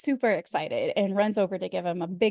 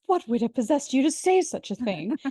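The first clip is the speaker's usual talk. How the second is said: mock-horrified, higher-pitched outburst; aghast; 4 semitones higher than usual. Recapping Richard's reply to the maid joke, mock aghast. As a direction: imitate an appalled grandfather. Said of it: "Richard and Emily are completely aghast".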